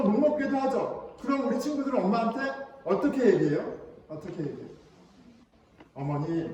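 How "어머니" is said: low, restrained 'mother'; overly proper child, said low and composed; formal address to mother. Acted. Child politely addressing mother, formal and restrained. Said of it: "이렇게 안 하죠?".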